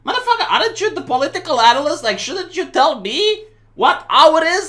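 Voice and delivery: fast, high, laughing disbelief; mock outraged jab at the analyst; exasperated retort. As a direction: fire it back at him, half laughing. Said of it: "I'm like".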